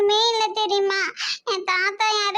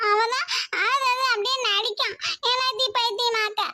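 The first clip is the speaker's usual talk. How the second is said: speaking through tears; tearful complaint. Acted. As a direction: whine it out while crying. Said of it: "அப்படியே அழுது நடிக்காத". (அழுதுகொண்டே புகார்)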